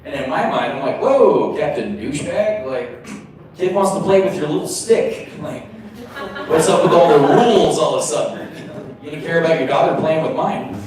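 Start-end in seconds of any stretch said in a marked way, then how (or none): 1.0-10.8 sarcastic, fast mocking tirade; mock the strict dad in your head; snarky inner rant.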